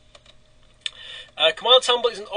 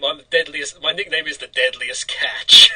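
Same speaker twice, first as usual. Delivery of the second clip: crab voice; 2 semitones lower, 7 dB louder than usual. Pretend. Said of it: "I'm a crab or something".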